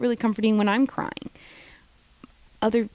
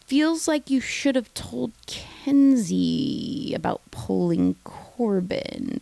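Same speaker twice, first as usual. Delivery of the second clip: snarky aside; much slower than usual. Real, not acted.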